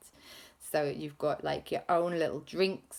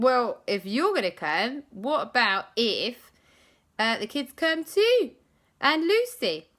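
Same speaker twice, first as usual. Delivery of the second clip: eager question; 5 semitones higher, 4 dB louder than usual. Acted. Kids ask Gru to join.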